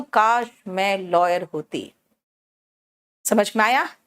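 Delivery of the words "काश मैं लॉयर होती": wistful wish. Shown as a demonstration. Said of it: "present में मैं imagine कर रही हूं".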